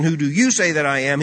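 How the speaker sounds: loud, high and ringing; full-force preacher's repeat; preached out loud. Acted. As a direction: proclaim the question to the crowd.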